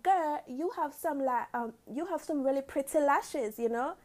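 imitating her aunt's British accent, admittedly not great; British accent impression. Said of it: "let me try to get her accent 'cause she got a British accent".

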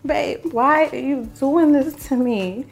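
slow, stretched, pleading whine with a rising end; drawn-out whiny plea. Retold or imitated. To her boyfriend on the phone, slow whiny plea. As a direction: drag it out like a needy girlfriend. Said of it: "I'm like".

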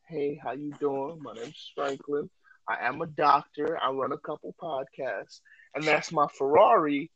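lightly voiced show-off pickup; soft flashy pickup line. Shown as a demonstration. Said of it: "you hit her with that".

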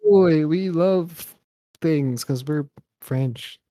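loud, hammy mock French accent, slowing at the end; fake French accent. Shown as a demonstration. Host hamming a fake French accent for his co-host, loud mock French. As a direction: bellow it like a cartoon Frenchman. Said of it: "I'm faking an Italian".

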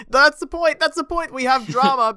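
high laughing squeal. Real, not acted.

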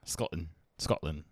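tried-out Scottish accent on one word. Shown as a demonstration. Showing off a childhood accent on request, Scottish accent.

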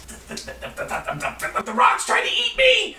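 stammering, panicked little gnome; frightened gnome. Acted. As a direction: squeak it out in terror. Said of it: "he says".

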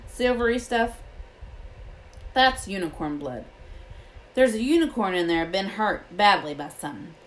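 a touch of rustic gamekeeper; lightly voiced Hagrid. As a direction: lightly voice the gamekeeper explaining a grim find.

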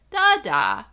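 toddler naming the dog, mildly imitated; a loud little toddler "Dada"; lightly voiced toddler pointing out the dog. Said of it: "a different tone to his voice".

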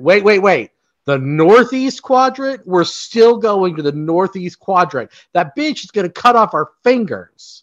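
high, alarmed disbelief; alarmed protest. Pretend. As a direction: balk at the order in alarm. Patrol member reacting in alarm.

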